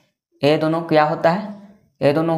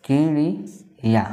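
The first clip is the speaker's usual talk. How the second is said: slow teaching word; 3 dB quieter, much slower than usual. Shown as a demonstration. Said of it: "चिड़ी को चिड़िया भी बोलते हैं".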